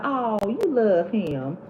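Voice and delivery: slow, drawn-out knowing tease; knowing mock drawl. Mother-in-law to her son's crying wife, slow knowing drawl. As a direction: stretch it out like she sees right through her.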